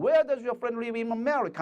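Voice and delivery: slow, showy delivery; slow confident model line; with a flourish. Shown as a demonstration. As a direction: strike a pose as you say it. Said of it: "하면서 폼도 잡아가면서요".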